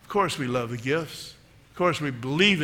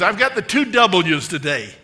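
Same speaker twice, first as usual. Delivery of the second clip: put-on spirited old lady, loud and higher-pitched; playful raised-voice impression; Dorothy Boyd; 4 semitones higher, 8 dB louder than usual. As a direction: announce it proudly in an imitated old lady's voice. Retold elderly woman's proud announcement.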